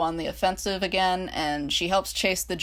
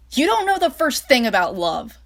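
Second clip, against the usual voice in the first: higher, louder angry snap; snapping; 7 semitones higher, 7 dB louder than usual. Acted. France snapping back at Reich about love. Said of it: "she snapped at him".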